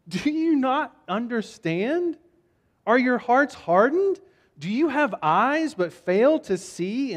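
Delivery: pointed questions with a touch of disbelief; mild exasperation. Acted. Jesus questioning disciples who don't understand, mildly exasperated. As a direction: press each question home, mildly incredulous.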